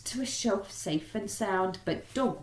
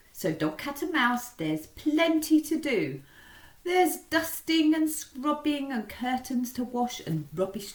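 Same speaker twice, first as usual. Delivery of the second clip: put-on high, lively old lady rallying her helpers; cheery old lady setting out the chores; 7 semitones higher, 3 dB louder than usual. Old lady cheering on dog, cat and mouse, high and lively.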